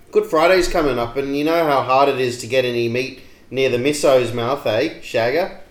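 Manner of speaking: broad Aussie bogan patter; bogan accent. Acted. Reading a favourite photo comment in bogan style. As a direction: chat it out in thick bogan. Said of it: "read it out to you in true Bogan style".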